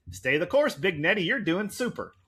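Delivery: a hint of a peppy cartoon impression; Ned Flanders's inner child. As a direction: cheer on your grown-up self, lightly in character. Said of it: "his inner child says".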